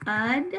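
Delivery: "Ud" sounded alone with an uh vowel; isolated schwa syllable. Shown as a demonstration. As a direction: isolate "Ud" as the start of advice. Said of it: "there's our schwa".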